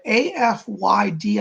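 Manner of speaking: slow letters "A F Y D" one by one; spelling it out. Shown as a demonstration. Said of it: "her last name is Affyd".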